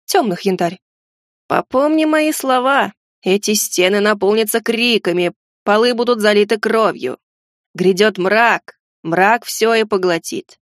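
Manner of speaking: slow, ominous rasping prophecy; hoarse gargoyle. Acted. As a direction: rasp it out like a doomed oracle. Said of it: "Хрипло выдавила горгулья".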